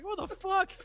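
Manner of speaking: high-pitched astonished reaction; tripping out. Retold or imitated. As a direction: imitate stunned onlookers. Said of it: "tripping out what I just did".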